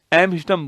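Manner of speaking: एम्स्टर्डम, the T left out; silent T. Shown as a demonstration. Teacher explaining how it is spoken, एम्स्टर्डम with silent T. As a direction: say एम्स्टर्डम without sounding its T. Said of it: "एम्स्टर्डम बोलते हैं ना".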